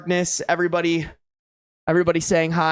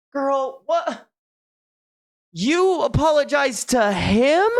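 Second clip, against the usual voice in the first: high, slow "what?" of disbelief; can't believe she apologized; stunned disbelief; 7 semitones higher, slower than usual. Real, not acted. Outraged at her apology.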